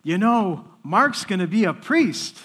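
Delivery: lightly hyped retold announcement; retold excitement. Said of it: "he's so excited".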